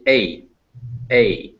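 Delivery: "A" as eh gliding into a weak I; diphthong demonstration. Shown as a demonstration. Teacher joining two vowels for students, gliding "A". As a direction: say "A" as two vowels smushed together. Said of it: "You put them together, you get".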